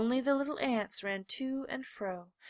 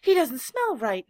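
loud, higher exclamation; exclaiming; 4 semitones higher, 11 dB louder than usual. A narrator's reading. Wild rabbit exclaims as he jumps back, loud. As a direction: blurt it out in alarm. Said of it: "he exclaimed".

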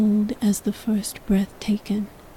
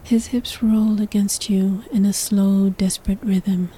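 whispered narration. A narrator's reading. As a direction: whisper the story close to the mic. Whispered throughout.

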